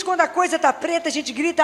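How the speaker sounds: usual speaking voice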